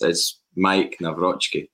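Mike Nawrocki said slowly, Nav-ROTCH-ki; slow careful Nawrocki with a v sound; spelling out Mike Nawrocki by ear; careful pronunciation. Shown as a demonstration. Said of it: "So aye, that is".

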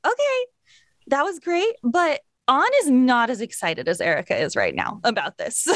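high, careful director imitation, easing down in pitch; tactful director. Director reining in an over-excited actress, imitated tactful correction. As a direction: imitate a director letting someone down lightly.

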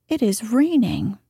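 "raining" falls away as a plain fact; statement of fact. Shown as a demonstration. Reader models the secondary name's tune, matter-of-fact fall. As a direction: state it simply, letting RAINING drop at the end. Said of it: "as a mere statement of fact".

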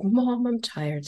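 put-on high, slow tired kid's plea; whiny tired child. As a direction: play the worn-out little boy. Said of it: "he's like".

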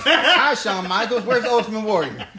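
put-on high, excited kid's question; mock kid voice. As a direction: imitate a clueless ten-year-old. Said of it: "retold kid meeting Shawn".

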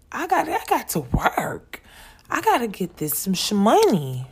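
lightly put-on rapper voice, pitch jumping up; a famous rapper. Working mom talking back to guilt, light imitation of a famous rapper's voice. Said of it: "In my Cardi B voice".

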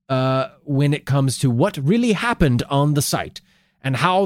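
light put-on Norwegian accent. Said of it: "I don't know if that's a good Norwegian accent".

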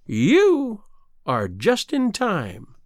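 sinister, taunting sea witch. Acted. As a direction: menace her, the wicked witch. Sea witch in fairy tale.

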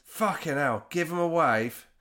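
grudging manager. Retold or imitated. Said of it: "And he goes".

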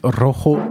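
Rojo with a Spanish rasped j, ʀɔxo; Spanish pronunciation. Real, not acted. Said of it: "Oh, la prononciation". (Rojo prononcé à l'espagnole, jota raclée)

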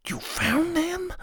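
high, soft hushed question; correcting himself into a whisper. A narrator's reading. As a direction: whisper it back eagerly. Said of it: "then he whispered it".

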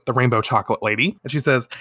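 ordinary delivery

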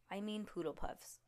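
hushed aside, unvoiced; whispered correction. Shown as a demonstration. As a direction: whisper it under the breath.

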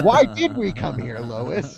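high and loud, cracking up; laughing through the line. Retold or imitated. Quoting a cartoon dad to friends, laughing. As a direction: giggle out the quote.

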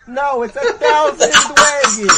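high, loud cartoon Brooklyn voice; Joey impression. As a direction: shout it like a cartoon duelist. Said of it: "Joey impression".

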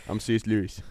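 put-on British introduction; British accent. Lewis introducing himself to Tolkien, put-on British accent. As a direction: hold the mock-British voice. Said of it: "work on our British accents".

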